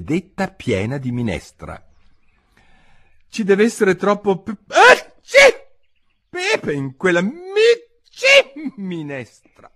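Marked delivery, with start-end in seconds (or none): 3.3-9.7 sentence broken by high sneezes; Alice muttering to herself, sneezes cutting in; sneezing through words. Acted. Alice sneezing over the peppery soup, words breaking off. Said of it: "starnutiva Alice fra sé".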